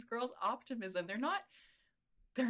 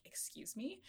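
high, very soft offended excuse me; 8 semitones higher, 11 dB quieter, slower than usual. Retold or imitated. Friend reacting to a snide comment, high and hushed offended. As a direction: feign hurt disbelief under breath.

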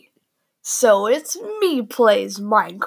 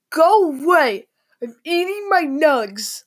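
mock sister; 5 semitones higher than usual. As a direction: play the sister guarding her nuggets. Sister voiced in a story.

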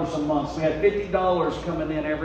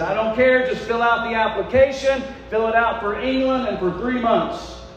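exasperated instruction; 5 semitones higher, 4 dB louder than usual. Retold or imitated. Retells ordering wife to apply.

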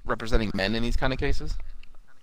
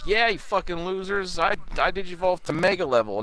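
cocky villain boast; 6 semitones higher, 3 dB quieter than usual. Acted. Voices villain's boast in recap.

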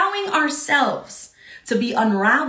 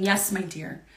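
tender reassurance; 3 semitones lower than usual. Retold or imitated. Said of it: "God's saying".

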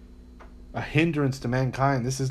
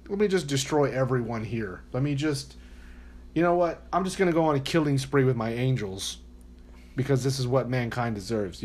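mock wrathful God.

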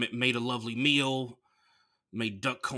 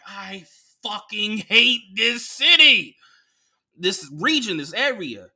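exasperated rant; 8 semitones higher, 8 dB louder, slower than usual. Retold or imitated. Fed up with the cops.

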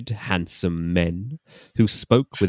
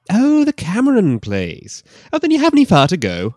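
Scottish man; 13 semitones higher, 8 dB louder than usual. Acted.

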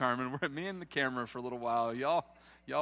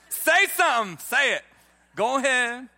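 much higher, louder squeal of glee; eager congregant; 10 semitones higher, 13 dB louder than usual. Retold or imitated. Congregant begging pastor to say it, squealing high. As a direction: mimic someone bursting to speak. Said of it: "some of y'all are like".

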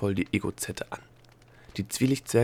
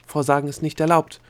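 louder, higher stern warning; stern admonishment; 5 semitones higher, 6 dB louder than usual. A narrator's reading. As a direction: reprimand strictly, as an examiner. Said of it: "ermahnte die Egozette in strengem Ton".

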